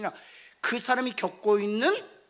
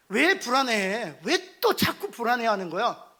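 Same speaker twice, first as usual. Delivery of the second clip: louder pressing slow demand; interrogating; 4 dB louder, slower than usual. Acted. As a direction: press them with blame. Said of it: "라고 따져 묻지 않습니다". (다그치듯 크게 따져 묻기)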